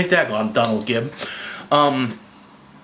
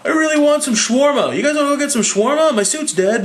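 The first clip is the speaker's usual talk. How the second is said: mock casual Tony; 12 semitones higher, faster than usual. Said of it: "And Tony's like".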